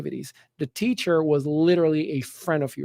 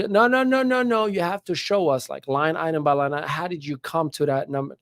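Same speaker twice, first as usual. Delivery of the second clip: teacher insisting; 3 semitones higher than usual. Retold or imitated.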